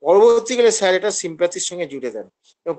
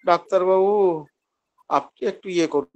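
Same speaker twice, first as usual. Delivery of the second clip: polite request. Shown as a demonstration. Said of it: "সে তো বিনয় সহকারে বলছে".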